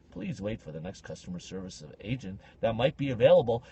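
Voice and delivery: lightly imitated phone-company agent; Rogers hold message. Rogers keeping a customer on hold, mock service voice. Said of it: "I was on hold with Rogers".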